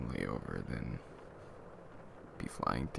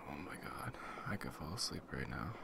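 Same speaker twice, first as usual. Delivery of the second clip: whispering; 3 semitones lower, 6 dB quieter than usual. Acted. Sinking into comfy couch.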